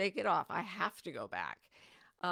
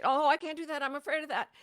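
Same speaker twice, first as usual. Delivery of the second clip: higher, louder mock panic; hammed-up fear of the unknown; mock fearful thought; 7 semitones higher, 7 dB louder, faster than usual. Preacher imitating her old scared self, mock panic. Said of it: "instead of thinking".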